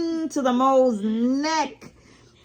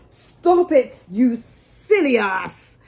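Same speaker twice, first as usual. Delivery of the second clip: loud alarmed cry, slowing on the insult; cried out; 4 dB louder, slower than usual. A narrator's reading. Rat yelling from the bottom of the boat, loud alarm. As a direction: shout at him to stop. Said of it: "cried the Rat".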